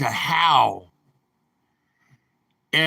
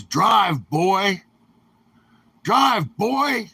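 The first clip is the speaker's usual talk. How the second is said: barking order; 4 semitones higher, much slower than usual. Retold or imitated. Police officer barking at the nervous trucker to drive. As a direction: bark it, then push it up a notch.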